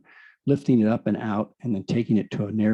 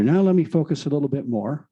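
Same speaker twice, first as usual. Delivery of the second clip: focus said with extra weight; stress on focus; 3 semitones higher than usual. Shown as a demonstration. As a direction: lean on the word focus. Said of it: "emphasis on the word focus".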